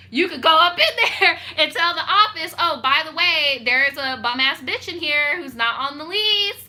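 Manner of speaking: loud, high mock demand; mock shouting at the office. To the leasing office, loudly demanding they leave.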